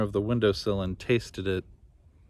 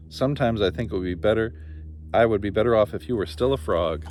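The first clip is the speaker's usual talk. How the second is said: annoyed princess. Acted. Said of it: "threw a perfectly awful fit".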